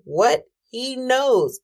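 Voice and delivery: mock-livid, drawn-out emphasis; livid mother. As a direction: imitate an outraged mom, without shouting. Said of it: "She was so livid".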